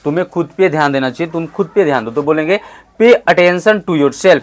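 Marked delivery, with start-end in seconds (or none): 3.0-4.4 slow, careful model sentence; slow model line. Shown as a demonstration. Teacher models the line slowly for the class. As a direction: give it slowly for copying. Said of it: "क्या बोलेंगे?".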